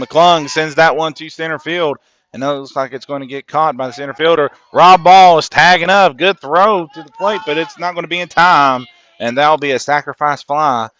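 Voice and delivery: loud, high, rushing commentary as the throw comes in; building play-by-play roar as the runner heads home; excited play call. Real, not acted. Live call of a big play.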